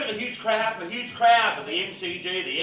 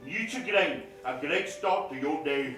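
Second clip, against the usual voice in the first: Tony Greig; slower than usual. Retold or imitated. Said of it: "And, and Tony Greig".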